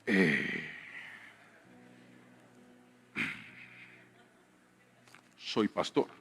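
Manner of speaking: meek father confessing to teacher; sheepish admission. Retold or imitated. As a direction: shrink as you admit it. Admitting to teacher he's a pastor.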